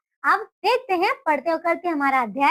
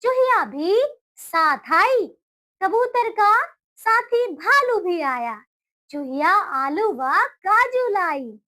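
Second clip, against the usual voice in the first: put-on slow, deliberate reading to children, phrase by phrase; slow, careful storybook reading for a class; slow read-along; slower than usual. Shown as a demonstration. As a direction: read it slowly so small kids can repeat each line. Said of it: "बोलिए मेरे साथ".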